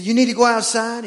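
dad chatting up his dog; talking to a dog. Acted. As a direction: coo at the dog like a baby. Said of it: "I said".

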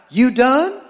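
sing-song potty question to the dog; dog baby talk. Retold or imitated. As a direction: coax the dog like a toddler. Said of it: "I'm like".

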